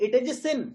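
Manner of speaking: slow "it is a sin", "sin" emphasized; stress on sin. Shown as a demonstration. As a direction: land on "sin" and hold it a moment. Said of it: "sin पे आप emphasise कर रहे हैं".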